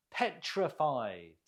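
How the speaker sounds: Petrified with PET stressed; stress on first syllable. Shown as a demonstration. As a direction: lead with a stressed PET in Petrified, then fall away. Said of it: "Note the stress on the first syllable".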